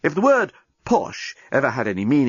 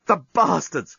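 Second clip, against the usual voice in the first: groaned; 3 semitones higher, slower than usual. Acted. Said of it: "groaned the journalist".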